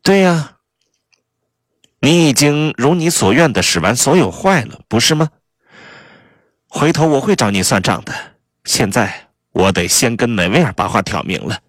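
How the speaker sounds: high-pitched, accusing spouse; angry Kay. Acted. Wronged spouse threatening a rival, high and angry.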